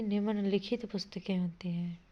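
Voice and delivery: breathy aside with the answer; whispered correction. Shown as a demonstration. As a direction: whisper the right form. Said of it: "निम्न पुस्तकें नहीं".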